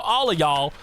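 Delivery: borrowed American "y'all"; lightly put-on American drawl on "all of y'all"; American accent. Shown as a demonstration. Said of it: "practicing my American accent".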